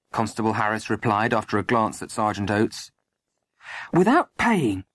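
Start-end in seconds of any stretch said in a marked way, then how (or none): 3.9-4.8 high-pitched indignant disbelief; shocked exclamation. A narrator's reading. Landlady learning the lodger has gone, shocked exclamation. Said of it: "Molly exclaimed".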